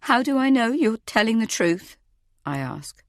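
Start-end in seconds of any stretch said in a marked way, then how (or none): 0.0-2.0 frightened question, pitched up high; scared, higher-pitched pleading question; quivering voice. A narrator's reading. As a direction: ask it with a nervous quiver. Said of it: "my voice quivering".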